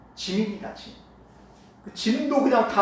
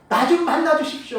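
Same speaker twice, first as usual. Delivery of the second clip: calling out louder, higher, pleading; loud desperate plea; 6 semitones higher, 4 dB louder than usual. Acted. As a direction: shout it so he won't pass by. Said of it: "예수님을 더 크게 부른 거예요". (더 크게 간절히 부르짖듯이)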